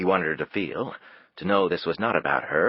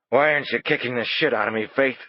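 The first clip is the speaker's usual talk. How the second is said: higher, louder desperate plea; anguished shout; 7 semitones higher, 3 dB louder than usual. A narrator's reading. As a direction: cry out in drunken anguish.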